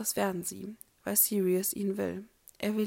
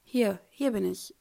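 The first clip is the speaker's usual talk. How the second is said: hasty answer; 6 dB louder than usual. Acted. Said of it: "sagt er schnell".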